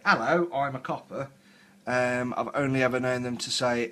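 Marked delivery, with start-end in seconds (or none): 0.1-1.3 lightly mimicked movie policeman; a milder mock British copper. Disputing how real coppers talk, light copper caricature. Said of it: "not known a single copper ever to say".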